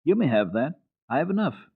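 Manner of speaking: put-on high, light child's voice; generous little girl. A narrator's reading. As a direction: Heidi offers her bread. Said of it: "and said".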